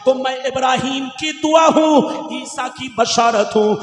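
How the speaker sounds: rhythmic, chant-like sermon with stretched key words; declamatory preaching. Real, not acted. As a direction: proclaim sacred words to a congregation. Preaches the hadith translation rhythmically. (लयदार, जोशीली तक़रीर)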